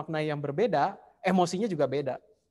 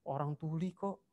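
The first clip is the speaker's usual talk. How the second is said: muttered under the breath, softer; husband's inner grumble; 13 dB quieter than usual. Retold or imitated. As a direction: grumble it quietly to yourself. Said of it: "suami mikir". (menggerutu pelan dalam hati)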